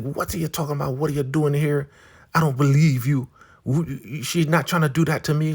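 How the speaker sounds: high, disbelieving elder woman imitation; Marva. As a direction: push back in a high, insistent voice. Marva voiced refusing the warning.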